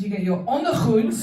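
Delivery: ondergoed said with a throaty Dutch g; ondergoed, guttural Dutch; Dutch word. Shown as a demonstration. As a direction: make ondergoed sound harsh and unsexy. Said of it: "sounds like a German hardware store".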